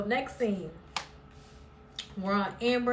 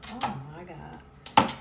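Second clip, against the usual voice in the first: slow, drawn-out, disbelieving groan; exasperated oh my God; 5 semitones lower, much slower than usual. Retold or imitated. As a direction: stretch it out in irritated disbelief. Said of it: "I'm like".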